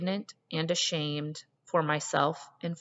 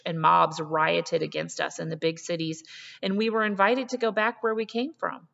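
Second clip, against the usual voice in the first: strong and resolute. Acted. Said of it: "her voice an electric flow of strength".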